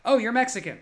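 brash Hollywood casting agent; casting director voice. Retold or imitated. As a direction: rattle off typecast roles dismissively. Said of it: "suddenly it was like".

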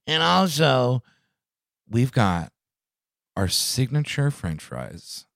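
hammed-up fast food commercial; mock ad voice. Mocking a McDonald's bacon promotion, ad announcer.

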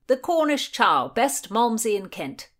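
high, loud announcement; calling out. A narrator's reading. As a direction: hail the tavern eagerly. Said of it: "called out William".

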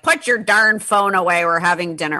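put-on a scolding dad at dinner in a light New York accent. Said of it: "I don't know why I use that accent".

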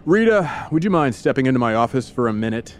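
serious mayor's summons; very solemn. Acted. Mayor calls Rita into his office, very solemn. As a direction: ask it gravely, with formal restraint. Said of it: "very serious, very solemn".

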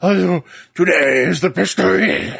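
slow, put-on Russian accent; a slow, hammed-up Russian accent; mock Russian accent. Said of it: "He doesn't know how to do a Russian accent".

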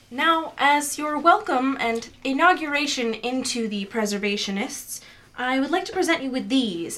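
lightly voiced Morgana, ceremonious. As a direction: lightly play a formal temple hostess. GM voices Morgana welcoming recruits.

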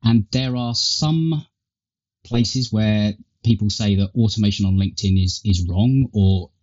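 tinny earbud mic sound; thin, tinny recording through earpods. Real, not acted. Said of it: "I guess, a tinny tone".

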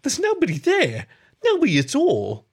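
high, loud, distraught outburst; near tears. A narrator's reading. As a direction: cry it out on the verge of tears. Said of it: "practically about to cry".

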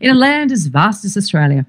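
front-of-mouth vowels, careful Australian newsreader; elocution-lesson Australian, vowels thrown forward; polished elocution accent. Shown as a demonstration. Host demonstrating her cleaned-up television voice, measured and polished. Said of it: "I go back to that phrase".

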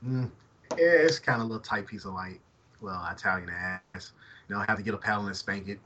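a light put-on Italian accent, loud in places; hammed-up Italian guy, only half-committed; mild mock Italian accent. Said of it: "Italian Darrell".

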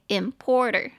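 "importer" stressed on POR; "importer" with a strong middle syllable; stress on second syllable. Shown as a demonstration. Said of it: "重音节在第二个音节".

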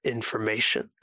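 slow, deliberate captive antagonist; lightly acted, unhurried defiance with spaced words; measured villain.

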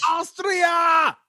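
put-on shouted in a hammy British accent. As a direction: yell it like a cartoon Brit. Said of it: "In a British accent".

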